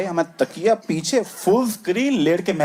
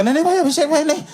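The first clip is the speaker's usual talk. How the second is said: panicked begging; 7 semitones higher than usual. Retold or imitated. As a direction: beg desperately to stop the dad. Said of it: "वो वहां पे excited है".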